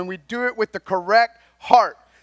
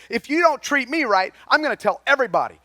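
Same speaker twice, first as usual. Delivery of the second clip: mock indignant threat, pitched up; higher, hurrying into the threat; threatening volunteer; 6 semitones higher, faster than usual. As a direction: lightly act an entitled volunteer's complaint. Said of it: "A volunteer says".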